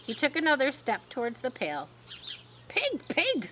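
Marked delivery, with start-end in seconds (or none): 2.7-3.5 kind voice. A narrator's reading. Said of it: "in a kind voice".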